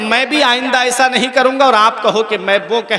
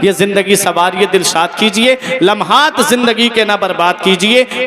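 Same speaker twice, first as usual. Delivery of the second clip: declaimed devotional couplets; poem recitation. Acted. Preacher closing with verses urging prayer, poetic recitation. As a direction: recite in measured rhyming phrases.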